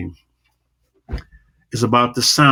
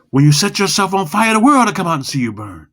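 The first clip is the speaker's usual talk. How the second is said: low and fast; 7 semitones higher, 4 dB louder than usual. Shown as a demonstration. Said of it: "as you go low and fast".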